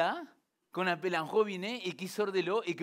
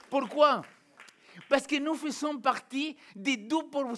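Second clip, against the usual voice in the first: loud rhetorical call; 7 semitones higher, 5 dB louder than usual. Real, not acted. Pastor calling out to the congregation, loud rhetorical question. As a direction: shout the question up high.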